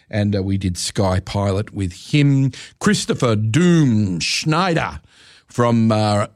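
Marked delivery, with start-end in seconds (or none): 2.8-5.0 slow, hammed-up German accent; bad German accent. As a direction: drag the name out in a mock German accent. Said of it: "That was the worst German accent".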